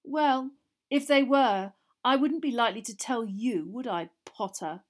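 Malfoy smug to Harry; smiling sneer. A narrator's reading. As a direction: smile through it. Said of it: "still smiling".

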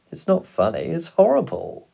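put-on high, loud boyish protest; protesting young son. A narrator's reading. Boy telling his father it is horrible, protesting.

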